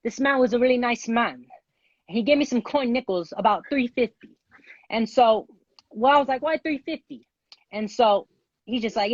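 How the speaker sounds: wobbly attempted British accent. Contestant improvising a thirty-second story for the host, in an attempted British accent. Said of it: "You gotta just talk in your British accent".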